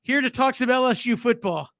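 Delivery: a mock West Coast coach saying "brah"; West Coast surfer. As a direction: hype it up like a West Coast bro. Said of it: "He'll be from the West Coast".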